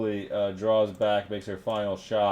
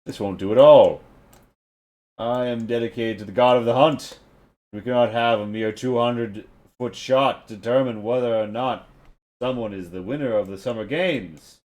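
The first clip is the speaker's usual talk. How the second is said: stern priest; 3 semitones higher, 6 dB louder than usual. Acted. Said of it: "one of the priests walk forward and say".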